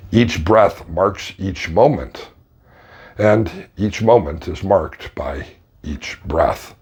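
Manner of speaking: slow, measured meditation delivery; unhurried guiding voice; guided meditation. Shown as a demonstration. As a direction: pace it slowly, with space between phrases. Demonstrates guided meditation script.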